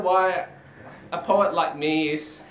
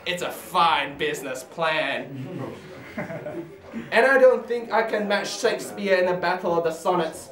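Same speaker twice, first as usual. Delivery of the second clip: spoken-word poem, measured and emphatic; poetry recitation. Acted. Poet performs a comic poem for an audience, declaimed. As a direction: recite it to a live crowd.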